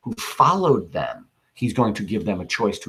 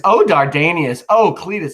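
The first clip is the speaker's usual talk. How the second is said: higher, louder cry of grief; anguished lament; 6 semitones higher, 6 dB louder than usual. Acted. Cletus grieving with Dardanius over Brutus's wish, high anguished cry. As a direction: cry out their names in grief.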